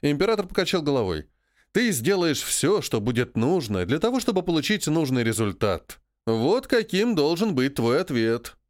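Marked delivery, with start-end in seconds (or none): 1.7-8.6 slow, cold imperial rebuke; cold rasping evil emperor. Acted. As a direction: lay down the law, slowly. Emperor lecturing colonel, slow. (медленно и холодно, как строгий император)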